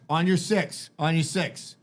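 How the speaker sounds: mock tactical callout. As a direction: call it out like a play soldier. Retelling kid playing soldier on delivery.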